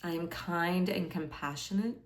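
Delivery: calm meditation guide, leaving space after each phrase; guided meditation. Acted. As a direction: offer each affirmation gently, unhurried. Guides a meditation with sample affirmations.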